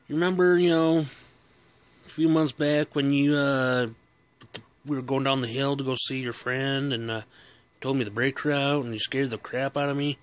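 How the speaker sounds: cheeky son reminding his dad; teasing kid. Retold or imitated. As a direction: needle him with the memory. Kid taunts dad about payback.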